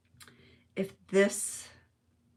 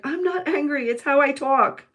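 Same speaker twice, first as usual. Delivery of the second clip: loud, raised-pitch mock protest; angry-sounding husband, imitated; 6 semitones higher, 8 dB louder than usual. Husband from Brooklyn defending how he talks, mock angry. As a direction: insist loudly, in mock anger. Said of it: "he sounds like he's angry all the time".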